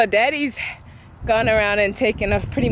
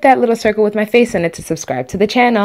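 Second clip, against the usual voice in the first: louder, upbeat outro call; 7 dB louder than usual. Real, not acted. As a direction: punch the sign-off out. End-screen outro, loud.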